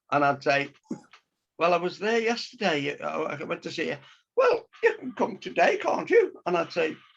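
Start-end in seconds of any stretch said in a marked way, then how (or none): 4.3-6.3 lovely, very high, swooping, sing-song lady voice. Recounting conversations with a woman, the speaker imitates her lovely high voice. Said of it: "she had a lovely high voice, Brian, like that".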